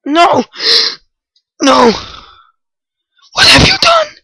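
rising yell, then a high wail; high pained shout; anguished yell. Real, not acted. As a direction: cry out as your friend dies. Friend killed in game.

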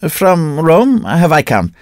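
slow, high, ringing proclamation; shouting priest. A narrator's reading. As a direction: boom it out like a mad holy man. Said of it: "shouted the priest".

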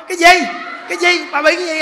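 high, loud demanding shout; husband shouting at his terrified wife; panicked shout. Retold or imitated. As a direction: yell the question in a panic.

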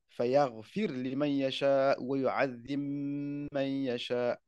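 "yu'adhim man" slowly with a held double m; slow Quran recitation, m sounds merged; idgham recitation. Shown as a demonstration. Teacher recites the verse to show the merge, slowly. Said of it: "il fait le idram".

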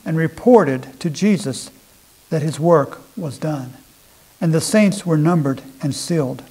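scripture reading. Acted. Preacher reads Ezekiel to the congregation, solemn and measured. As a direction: read the verses out with weight.

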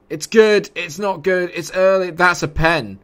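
loud, high, rising agitation; real heat-of-the-match excitement; agitated exclaiming. Real, not acted. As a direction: call the play in a high, urgent voice. Reacting live to a penalty incident.

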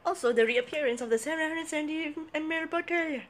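high, loud, put-on announcer voice; mock announcer. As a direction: announce the bottle like a grand reveal.

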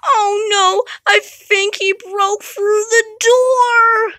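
terrified crying. Acted. Wendy terrified, Jack breaking in.

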